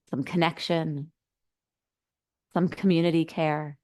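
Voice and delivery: unhurried guide, with long pauses between phrases; settling meditation instructions, spaciously phrased; guided meditation. Acted. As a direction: ease listeners inward, leaving space after each phrase.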